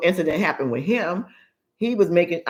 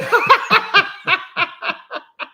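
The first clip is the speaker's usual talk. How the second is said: a long, high burst of laughter; 14 semitones higher, 4 dB louder than usual. Real, not acted. Mother cracking up at son's anger management line, high laugh. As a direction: laugh hard at the memory.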